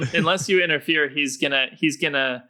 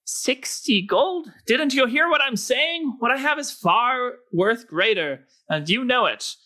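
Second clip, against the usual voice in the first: high indignant halfling rogue; 11 semitones higher than usual. Acted. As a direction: scoff in a high voice. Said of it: "the rogue is saying".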